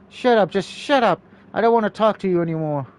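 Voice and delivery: fed-up snapping at Sasha; angry. Acted. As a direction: cut her off, done listening. Hazel snaps at Sasha.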